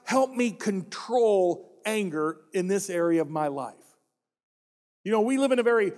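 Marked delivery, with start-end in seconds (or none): 0.0-3.7 earnest slow prayer. Acted. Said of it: "pray earnestly that".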